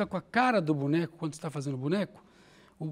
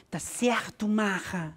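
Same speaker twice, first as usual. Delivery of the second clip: Celeste voice; much slower than usual. Shown as a demonstration. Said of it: "ela fala".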